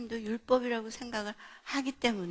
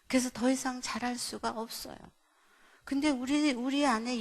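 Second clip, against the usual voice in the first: ordinary talk, nothing marked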